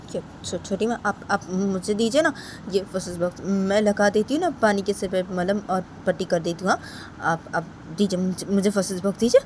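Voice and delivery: lightly voiced Rama, stumbling and pleading; timid, pleading Rama. (धीमी, झिझकती विनती)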